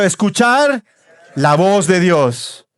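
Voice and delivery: escuchar called out strong to the crowd. Shown as a demonstration. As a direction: belt out escuchar. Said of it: "fuerte, dígalo".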